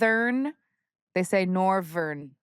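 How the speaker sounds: northern said as norvern, v for th. Shown as a demonstration. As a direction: say norvern, swap the th for v. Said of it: "They say it with a v".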